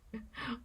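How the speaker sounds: brief, soft laugh; breath of laughter at your own oddness; small self-mocking laugh. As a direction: laugh quietly at yourself. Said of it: "I always have to laugh at myself".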